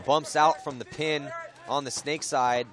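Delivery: brisk, projected sports commentary; sportscaster calling a live point; live play-by-play. Real, not acted. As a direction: call the action as it unfolds.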